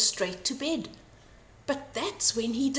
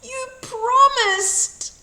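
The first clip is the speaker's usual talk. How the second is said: playful teasing; 8 semitones higher, 6 dB louder, slower than usual. A narrator's reading. Children tease, wolf retorts.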